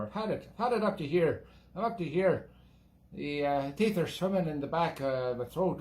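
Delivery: light put-on Irish brogue, rambling tipsy patter; lilting mock Irish, half-hearted and drifting; Irish accent. Host rambling to viewers about Guinness, in a mild put-on Irish accent. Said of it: "a little bit of Irish still in there".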